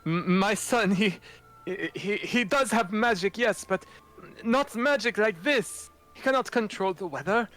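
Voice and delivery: high, stammering frantic defence; panicked father. Acted. Father frantically defending his son, stammering high. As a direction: voice climbs way up in panic.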